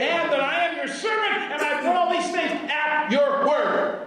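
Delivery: high, ringing prayer to God; declaimed prayer. Retold or imitated. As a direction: proclaim it fervently as a prophet praying. Acts out Elijah's public prayer.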